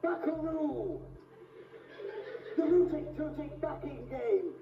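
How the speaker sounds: a hint of booming Darth Vader. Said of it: "opening scene from that new film".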